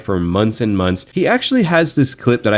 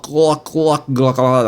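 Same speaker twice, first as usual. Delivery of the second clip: higher, rapid imitated clucking; mock clucking noises; 4 semitones higher, slower than usual. Mocking a fan going crazy on the micro, clucking. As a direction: cluck away in mockery.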